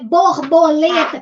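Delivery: BORBOLETA slowly, BOR, BO, LE, TA; syllable by syllable. Shown as a demonstration. Teacher shows a longer word, syllable by syllable. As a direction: give BORBOLETA four separate beats. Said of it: "já é uma palavra maior".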